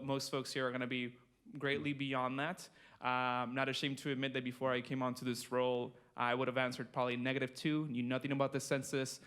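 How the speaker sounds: usual speaking voice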